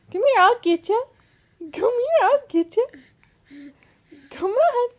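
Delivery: playful mock chase. Mother pretending to catch her giggling baby, playful mock threat. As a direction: chase the baby with your voice, teasing and bright.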